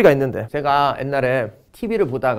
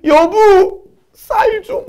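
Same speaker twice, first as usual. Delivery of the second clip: hammed-up crying plea; 5 dB louder, much slower than usual. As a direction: voice pushed much higher and louder in a mock sob. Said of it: "울면서".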